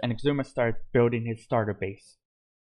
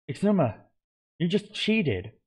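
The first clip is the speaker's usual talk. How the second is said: shocked scolding, higher; exclaiming; 7 semitones higher than usual. A narrator's reading. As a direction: call out the cheat in disbelief. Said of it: "exclaimed Grian".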